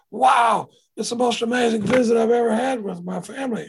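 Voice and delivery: loud, high and excited, amazed; amazed exclaim. Retold or imitated. Sponsees coming back from their families, loud and amazed. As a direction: burst out with delight. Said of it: "they come back going".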